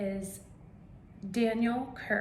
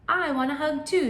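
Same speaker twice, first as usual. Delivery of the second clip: bird voice; 8 semitones higher, 9 dB louder than usual. Acted.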